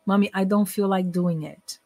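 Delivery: "I don't feel like doing it" slow, each word separate; slowed, clear English. Retold or imitated. Son repeats for his mother on request, slow and clear. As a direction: articulate "I don't feel like doing it" fully and slowly. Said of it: "Can you slow down".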